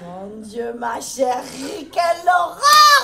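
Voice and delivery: mock horror. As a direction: draw it out in theatrical disgust. Stylist horrified by Christina's look.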